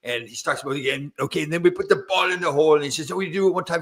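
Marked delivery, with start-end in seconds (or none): 1.2-2.7 put-on Scottish accent. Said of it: "the Scottish accent". 3.1-3.8 put-on Scottish accent. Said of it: "the Scottish accent".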